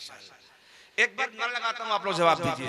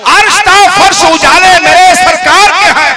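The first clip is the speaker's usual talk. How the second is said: louder, higher full-throated naat line; full-voice recitation; 8 semitones higher, 16 dB louder than usual. Acted. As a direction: give it everything, full voice to the crowd. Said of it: "पूरा मैं पढ़ता हूँ".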